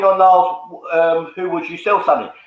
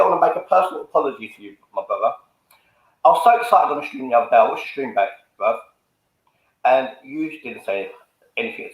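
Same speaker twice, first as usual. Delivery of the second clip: sincere apology; 4 semitones lower than usual. Real, not acted. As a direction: apologise earnestly, dropping your pitch. Personal apology to a listener.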